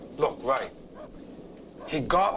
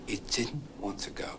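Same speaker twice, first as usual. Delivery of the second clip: whispered disbelief; 4 semitones lower, 10 dB quieter than usual. Real, not acted. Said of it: "repeated in disbelief".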